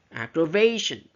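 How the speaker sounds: "aggravation" with VA loud, then falling; "aggravation", punching its third syllable; stress on third syllable. Shown as a demonstration. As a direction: hit the "va" in "aggravation". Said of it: "is on the third syllable".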